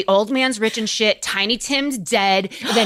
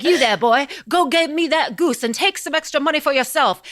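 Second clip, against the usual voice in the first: Scrooge ordering; 5 semitones higher than usual. Retold or imitated. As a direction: send the boy off, pitched up. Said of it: "he's like".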